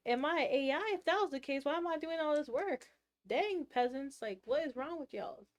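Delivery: high-pitched, incredulous retort; mock-offended comeback to the doubters; acted indignation.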